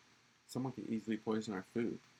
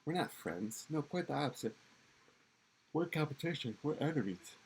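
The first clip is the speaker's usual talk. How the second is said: raised rebuttal; 6 semitones higher than usual. Acted.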